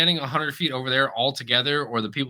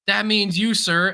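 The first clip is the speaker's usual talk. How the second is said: mock yell, higher pitched; retold yelling; 7 semitones higher, 4 dB louder than usual. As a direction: imitate a man yelling at someone. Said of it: "he was yelling straight into my ear".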